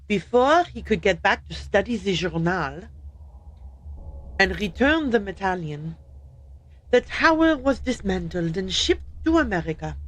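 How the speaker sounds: light French accent on the carpenter's line; mild French-accented narration. Shown as a demonstration. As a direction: read it as a Frenchman would. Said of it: "he should have said it this way".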